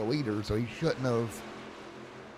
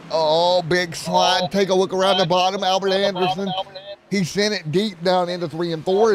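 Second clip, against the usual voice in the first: excited play-by-play; 4 semitones higher than usual. Acted. Excited race call.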